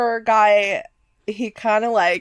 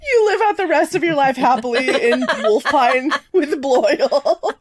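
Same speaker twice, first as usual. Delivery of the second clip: laughing; 3 semitones higher than usual. Real, not acted. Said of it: "far laugh".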